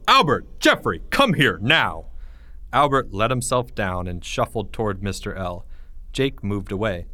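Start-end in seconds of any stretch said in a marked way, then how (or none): 0.1-2.0 loud teacher call; louder stern shout; yell. Acted. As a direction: call them in sharply. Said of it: "and he yelled".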